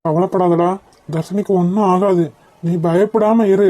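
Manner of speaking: low, measured comforting; soothing and settled; calm reassurance. Acted. Friend calms the frightened man.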